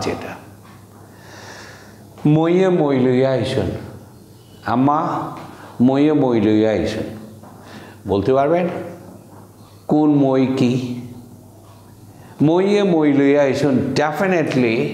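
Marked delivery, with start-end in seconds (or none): 2.2-5.3 Sylheti demo. Shown as a demonstration. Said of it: "Sylheti sentence demo". 5.8-7.0 Sylheti demo. Shown as a demonstration. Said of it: "Sylheti sentence demo". 12.4-13.9 Sylheti demo. Shown as a demonstration. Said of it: "Sylheti sentence demo".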